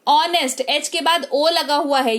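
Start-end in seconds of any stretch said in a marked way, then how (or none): 0.1-0.6 ऑनेस्ट with the h silent, starting on the vowel; correct pronunciation. Shown as a demonstration. Teacher showing the right way: ऑनेस्ट, h silent. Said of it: "तो ऑनेस्ट पढ़ेंगे".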